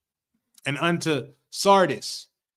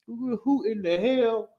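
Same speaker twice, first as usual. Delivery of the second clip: startled; 7 semitones higher, slower than usual. Retold or imitated. John startled by a voice.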